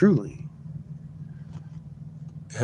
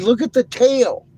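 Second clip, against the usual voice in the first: high, loud excited shout; high excited yell; 10 dB louder than usual. Retold or imitated. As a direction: yell it out, pointing in awe. Retold excited pointing out.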